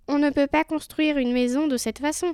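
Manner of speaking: mildly stern little pig decree. Acted. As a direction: lay down the law, pitched a little up. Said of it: "troisième qui décréta".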